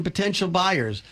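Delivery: potential leaned on a little; "potential" given a slight knowing weight; stress on potential. Retold or imitated. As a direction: lean on "potential" with a wry hint. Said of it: "Let's emphasize the word potential".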